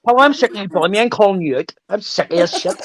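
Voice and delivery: high, hammed-up mock challenge, lightly voiced; mock call-out. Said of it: "you were like, listen".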